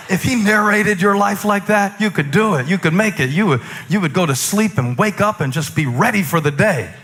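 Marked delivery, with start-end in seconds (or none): none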